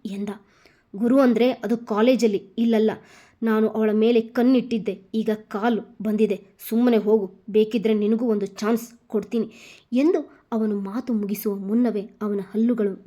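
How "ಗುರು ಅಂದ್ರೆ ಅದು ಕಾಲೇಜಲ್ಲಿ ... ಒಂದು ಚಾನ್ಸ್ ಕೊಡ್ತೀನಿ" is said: a cocky thug sneering a bit louder; lightly voiced sneering thug; sneering taunt. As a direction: taunt him, sure of yourself.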